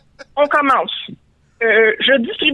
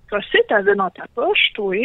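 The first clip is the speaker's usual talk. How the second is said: higher, suspicious creature voice; creature demanding; 5 semitones higher than usual. Acted. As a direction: demand it like a tricked cave creature. Créature fâchée d'être trompée. (créature méfiante qui exige, voix aiguë)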